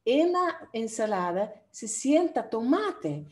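spelled out slowly for learners; slowly, word by word, so students catch it; slow demo sentence. Shown as a demonstration. Teacher slowing down a sample sentence for students. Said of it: "nosotros decimos".

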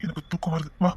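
tender murmured reassurance; hushed and tender. Acted. Intimate night talk to wife.

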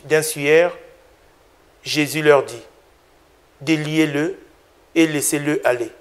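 measured, solemn Gospel reading; calm lector voice, each clause set apart; scripture reading. Acted. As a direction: read the passage as a liturgical text. Gospel read before the homily.

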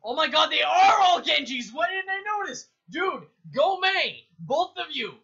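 loud, high surprised shout; dawning joy. Real, not acted. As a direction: burst out on noticing. Realises enemy team all Genjis.

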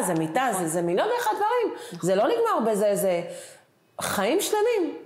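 half-laughing at how much it all is; laughing while listing. Real, not acted. Overwhelmed mother laughing as she lists baby expenses, laughing.

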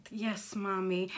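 slow, dutiful reply; subdued, dragging obedience; resigned child. Acted. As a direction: give in glumly to mom. Gabby resigned to the scolding.

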